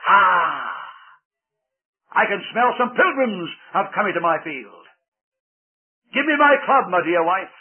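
booming giant demanding his club; big giant waking hungry. A narrator's reading. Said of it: "as he said".

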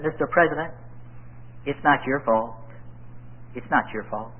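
low, tender consoling tone; gentle reassurance. Acted. Preacher addressing the absent president, gently reassuring. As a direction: reassure softly, letting the pitch sink.

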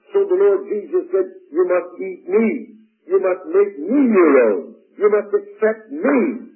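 loud, high, slow proclamation; full-force preaching. Acted. Preacher delivers the Lord's command to his congregation, loud and emphatic. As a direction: ring out each command to the whole room.

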